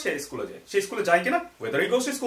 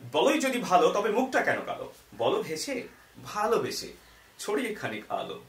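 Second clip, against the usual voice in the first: gentle poem recitation, fading softer at the end; recites own poem; 3 dB quieter than usual. Shown as a demonstration. Teacher recites his short poem to the class, gently. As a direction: read it like a little rhyme, trailing off softly. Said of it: "কবিতাটা লেখা হয়েছে এইভাবে".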